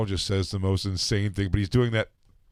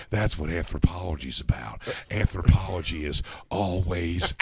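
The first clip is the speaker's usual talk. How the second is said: long words; 4 semitones lower than usual. Retold or imitated. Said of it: "like, these long, long words".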